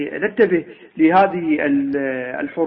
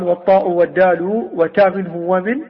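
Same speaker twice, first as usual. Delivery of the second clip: Quran-style recitation. Shown as a demonstration. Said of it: "قال".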